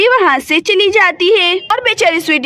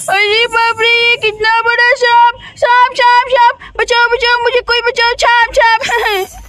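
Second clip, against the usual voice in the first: panicked screams; 3 semitones higher than usual. Acted. Girl sees huge snake in bathroom.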